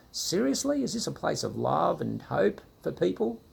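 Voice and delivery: high, incredulous "seriously"; lightly exasperated disbelief; mock exasperation. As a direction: throw up your hands in disbelief. Exasperated inner reaction.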